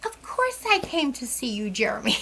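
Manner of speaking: soft, cooing mock reassurance; gushing reassurance. Reassuring excited Jeremy she came to see him, softly gushing. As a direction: coo it softly, as if humoring him.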